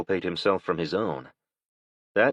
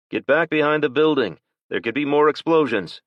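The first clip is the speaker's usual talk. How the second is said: urgent shouted order; 9 semitones higher, 7 dB louder than usual. Acted. Will orders people away from explosion.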